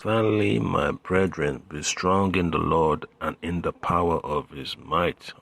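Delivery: emphatic, measured Bible reading; scripture reading. Acted. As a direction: proclaim the verse to the congregation. Reads scripture aloud.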